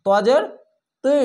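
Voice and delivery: তি said thick, mouth full. Shown as a demonstration. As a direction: fill the mouth on তজের তি, heavy and thick. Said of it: "একটু মোটা করে মুখটা ভরে আসবে". (মুখ ভরে মোটা করে তজের তি)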